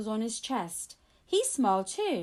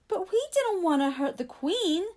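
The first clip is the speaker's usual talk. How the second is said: sobbed; 8 semitones higher, 4 dB louder than usual. A narrator's reading. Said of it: "sobbed Tom".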